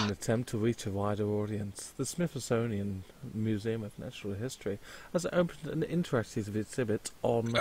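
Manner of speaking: narrator voice. Acted. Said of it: "have that narrator voice".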